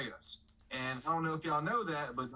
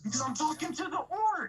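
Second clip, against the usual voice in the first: exasperated, high and loud; frustrated shout; 13 semitones higher, 4 dB louder than usual. Real, not acted. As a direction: yell it in frustration. Arguing with GM.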